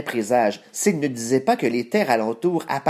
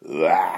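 lion roar; 5 semitones lower than usual. Acted. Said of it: "au rugissement effrayant".

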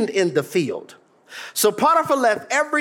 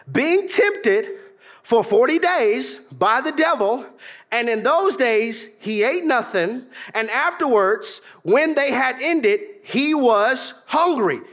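slow, measured Bible reading; preacher reading a Bible verse; scripture reading; slower than usual. Acted. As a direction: read the verse slowly and deliberately.

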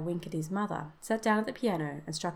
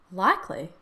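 louder, mock-horrified exclamation; pretended horror; 7 dB louder than usual. Son teasing his father, with pretended horror. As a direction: feign horror, briefly and emphatically. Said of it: "said Herbert with pretended horror".

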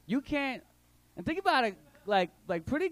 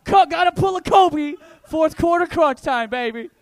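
1 hyped sports call; 8 semitones higher, 11 dB louder than usual. Acted.

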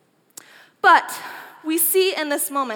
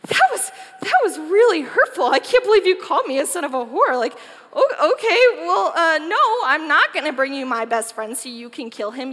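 hurt; 5 dB louder than usual. Acted. Jonathan stung by his father's insult.

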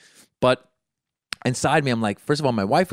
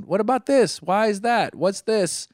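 put-on high-pitched kid firing questions; five-year-old nephew; 8 semitones higher, slower than usual. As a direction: imitate a pestering little kid. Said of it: "The five-year-old is in the back going".

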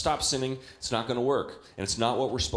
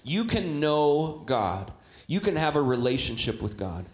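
louder, very slow, emphatic proclamation; slow proclaimed message; 3 dB louder, slower than usual. Acted. Preacher to congregation, slow loud proclamation. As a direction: lean on every word, preaching it.

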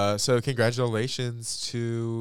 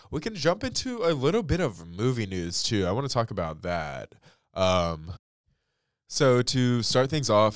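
stuffy nose from allergies; congested; 3 semitones higher, 4 dB louder than usual. Real, not acted. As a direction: talk through a blocked nose. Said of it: "sorry if I sound, like, really congested".

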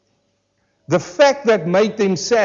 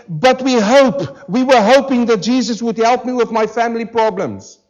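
mock churchgoer; 2 semitones higher than usual. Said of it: "some who might say".

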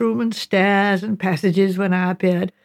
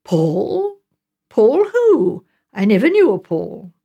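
mock forgetfulness; 3 dB louder, slower than usual. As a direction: feign having forgotten him entirely. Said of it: "you'll be saying".

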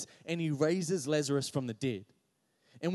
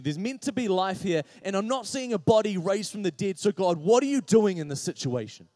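higher, insistent exasperated questioning; retold frustration; 4 semitones higher, 5 dB louder than usual. Preacher retelling angry research and questioning God, mounting frustration. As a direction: press the questions, building to a louder demand. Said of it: "I started to get mad".

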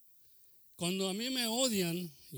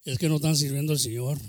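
repeated much louder, hammering it home; shouted; 3 semitones lower, 12 dB louder, faster than usual. Shown as a demonstration. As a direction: shout it out to the congregation. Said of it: "les digo a lo claro".

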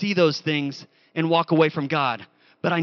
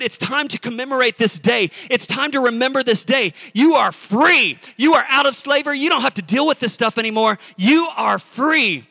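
triumphant proclamation; 4 semitones higher, 5 dB louder than usual. Acted. Preacher voices God freeing Israel, booming and triumphant. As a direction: proclaim freedom to the slaves.

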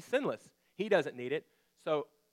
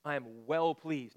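fatherly declaration; slower than usual. Acted. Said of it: "in an audible voice says".

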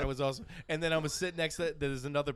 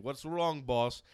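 driver impression; 3 dB louder, much slower than usual. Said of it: "He's like".

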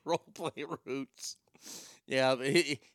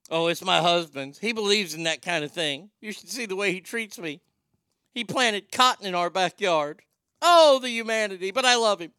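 mock wife voice; 4 semitones higher, 7 dB louder than usual. Voicing the wife defending husband.

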